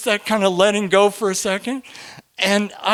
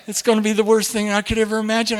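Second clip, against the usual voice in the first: retold plea to God; 5 semitones higher, faster than usual. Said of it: "I was saying".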